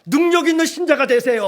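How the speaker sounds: blessing called out, pitched high. Shown as a demonstration. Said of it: "옆에 있는 분에게 축복 한번 합시다". (높은 목소리로 외치는 축복)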